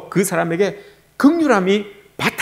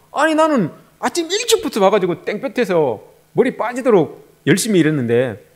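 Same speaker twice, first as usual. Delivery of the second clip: complaining worker; 2 semitones higher than usual. Acted. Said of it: "불평을 이야기합니다".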